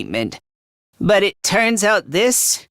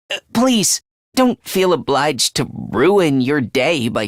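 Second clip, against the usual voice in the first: frantic apology; 2 semitones higher than usual. Acted. Self-loathing boy begs pardon for wasting someone's time, frantically apologetic. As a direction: apologize as if unworthy of being spoken to.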